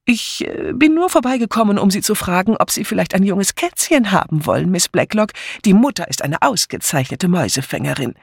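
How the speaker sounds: high, hesitant, then chattering on; uneasy. A narrator's reading. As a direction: cover sudden discomfort with high-pitched talk. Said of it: "wurde ihr auf einmal unbehaglich zumute".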